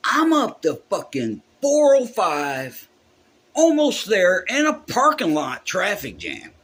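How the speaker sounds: reliving the stress of being stuck in traffic; retold panic. Musician telling how late he was, stuck near the venue, frantic.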